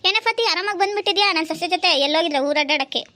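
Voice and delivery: mother-in-law challenging the neighbour, high and loud; shrill mother-in-law. Acted. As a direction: pick a fight in a high, loud voice.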